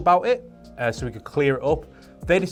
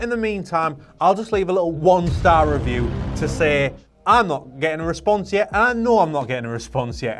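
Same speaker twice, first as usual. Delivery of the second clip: mocking impatient reviewer; 4 semitones higher, 3 dB louder than usual.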